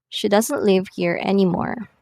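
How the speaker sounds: statement falling on "anymore"; falling intonation. Shown as a demonstration. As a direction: bring "anymore" down to a close. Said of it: "usually using falling intonation".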